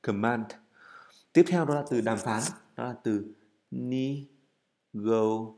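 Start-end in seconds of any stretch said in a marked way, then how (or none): 0.0-0.4 "Command" with a clearly released final D at the end; teacher stressing the ending sound of "Command". Shown as a demonstration. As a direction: make sure the D at the end of "Command" is heard. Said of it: "đừng quên cái ending sound là âm D".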